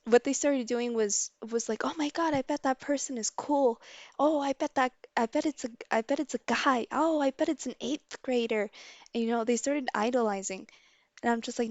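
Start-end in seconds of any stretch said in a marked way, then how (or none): 1.8-8.7 higher, mock-impressed gossip; imitating admiring students. Students idolizing whoever did it, imitated excited speculation. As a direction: play schoolkids guessing at their new hero.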